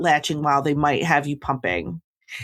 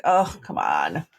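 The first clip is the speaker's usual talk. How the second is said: retold exasperation; 11 semitones lower, slower than usual. Retells exasperation at the nurses.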